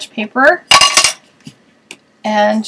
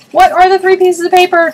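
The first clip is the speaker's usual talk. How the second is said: excited build-up; 8 semitones higher, 8 dB louder than usual. Real, not acted. Big reveal of the papers.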